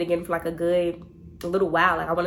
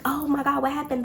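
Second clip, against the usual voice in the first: higher-pitched fake concern; feigned alarm; 7 semitones higher than usual. Her playing along with friend's lie, feigned alarm. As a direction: act shocked for an eavesdropper. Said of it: "Lying, 'cause all of this is a lie".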